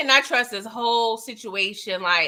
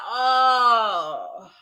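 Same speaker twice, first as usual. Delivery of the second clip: high, whiny plea to Sissy; pleading complaint; 5 semitones higher, slower than usual. Retold or imitated. Viewer complaining to Sissy about the shooting, high whiny plea. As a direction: beg her to wait just a moment. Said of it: "And I'm like".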